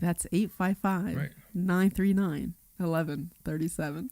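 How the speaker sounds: slow, sultry phone number read; sexy voice. Shown as a demonstration. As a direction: linger on each number seductively. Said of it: "you actually sounded, sounded, wow".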